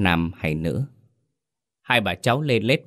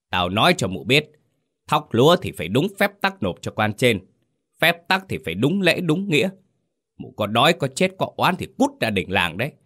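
higher, rising acted rage; furious shouting chief; 3 semitones higher than usual. Chief slams the table and drives the starving woman out, furious. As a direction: bark him down from above, pitch climbing. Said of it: "bực bội đập bàn quát".

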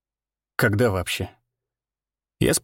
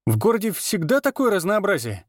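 higher-pitched, amazed question; 7 semitones higher than usual. A narrator's reading. Стёпа marvels to his friends at the tavern menu, amazed. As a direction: ask it in wonder, pitch lifted. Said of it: "изумился Стёпа".

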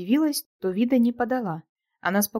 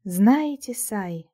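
sultry, teasing drawl; languid drawl; much slower than usual. Acted. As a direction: draw the words out languidly, flirting. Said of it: "томно протянула эта искусительница".

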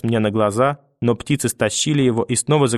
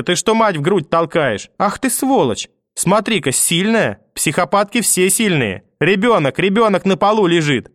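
high, raised tirade of abuse; furious grandmother; 5 semitones higher than usual. Acted. Grandmother berates the mother for knocking her down, high and furious.

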